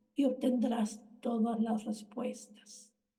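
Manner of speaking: usual speaking voice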